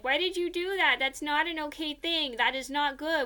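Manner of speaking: lightly acted telling-off from classmates; mock scolding. Friends scold the speaker, acted out.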